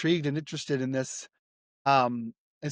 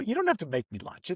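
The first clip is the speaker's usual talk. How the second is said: put-on broken English, higher and faster; 4 semitones higher, 5 dB quieter than usual. Retelling declining a woman's offer to make lunch, speaking broken English. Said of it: "in broken English".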